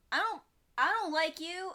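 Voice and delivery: lightly voiced sulky cat; voicing the cat. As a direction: pout it like a sulky pet. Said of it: "Cow Baby is like".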